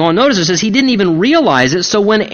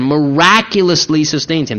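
"miraculously" said with deliberate emphasis on "rac"; stress on miraculously; 2 semitones lower than usual. Shown as a demonstration. Preacher repeating his point for the congregation, stressing "miraculously". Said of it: "I emphasize the word".

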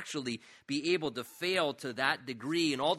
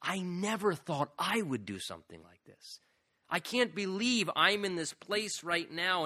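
guilty inner thoughts. Retold or imitated. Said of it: "the guilt, thinking".

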